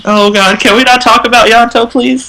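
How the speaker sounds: mock anguish. Real, not acted. Fan upset by mention of Yanto.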